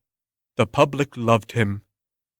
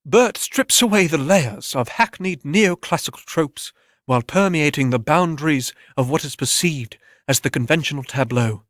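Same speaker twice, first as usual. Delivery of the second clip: pompous pundit. Acted. TV talk show critic explaining Bert's art, pompous. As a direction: lecture on Bert like a self-important critic. Gallery critic jargon speech.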